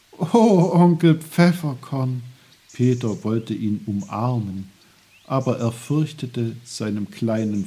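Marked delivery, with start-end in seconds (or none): 0.1-2.2 high, loud burst of joy; delighted exclamation. Acted. Boy wants to hug his little friend, delighted. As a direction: cry out, overjoyed. Peter delighted by uncle's promise.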